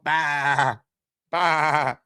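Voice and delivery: imitating a drunk man's goat bleat, lightly; goat bleat imitation. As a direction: bleat it out like a goat, half-joking. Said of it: "he starts bang like a goat".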